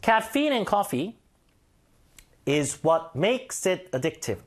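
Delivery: Caffeine in coffee is what makes it addictive, read very slowly; slow sentence demo. Shown as a demonstration. Teacher composing the sentence aloud very slowly. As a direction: build the sentence word by word, very slowly. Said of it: "주어를 카페인으로 잡을까요".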